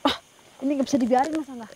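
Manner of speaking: loud urgent call over wind; shouting over wind. Real, not acted. Wind roaring around them.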